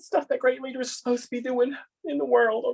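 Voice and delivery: very high voice, right on the verge of tears. Telling the person who paired folks with assignments they're doing fine: teary-eyed.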